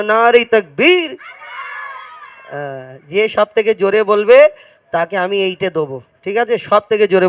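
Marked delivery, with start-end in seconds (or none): 0.0-1.2 put-on slow, stretched call for the children to answer; teacher leading the children in a loud takbir; drawn-out loud call. Shown as a demonstration. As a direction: call out nice and slow for the response. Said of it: "একবার জোরে তাকবীর দাও".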